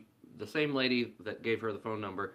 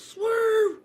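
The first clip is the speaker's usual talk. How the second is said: much higher, much louder yell; shouted warning; 12 dB louder than usual. Retold or imitated. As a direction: bark it like a sudden panicked warning. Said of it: "Brother ... and goes".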